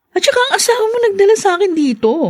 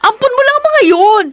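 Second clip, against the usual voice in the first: angry retort; 6 semitones higher than usual. Acted. Mistress scornfully shouting at the wife about her adopted children.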